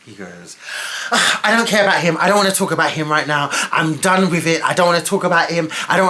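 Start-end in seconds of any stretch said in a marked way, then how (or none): 1.1-6.1 a quick snapped refusal, imitated; irritated brush-off. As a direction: brush it off hurriedly, like you can't be bothered. Retelling his dismissive refusal.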